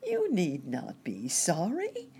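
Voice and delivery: a touch of breezy cheer; chirping cricket. A narrator's reading. Poor cricket reassuring Nurse Jane, mildly chirpy. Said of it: "chirped the cricket".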